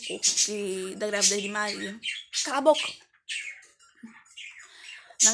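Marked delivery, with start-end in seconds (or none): 2.4-2.9 mock shout. Sudden exclamation cutting herself off.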